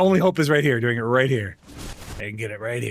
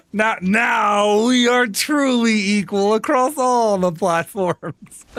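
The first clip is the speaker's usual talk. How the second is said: tag; slower than usual. Pretend. Mock proclamation about shared crash.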